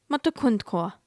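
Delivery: imitating a German pronunciation clip; amateur go at German pronunciation; attempted German accent. Shown as a demonstration. American repeating the pronunciation clip, attempted German accent. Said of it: "this is obviously a German accent".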